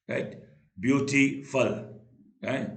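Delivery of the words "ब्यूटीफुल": ब्यूटीफुल beat by beat, ब्यू, टी, फुल; teacher separating ब्यू, टी, फुल in ब्यूटीफुल; syllable split. Shown as a demonstration. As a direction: sound out ब्यूटीफुल in three parts. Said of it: "तीन syllable".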